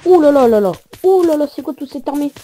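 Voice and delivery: loud, high alarmed outcry; alarmé. Real, not acted. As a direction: gasp at the army. Sees big army of mobs. (exclamation alarmée, forte et aiguë)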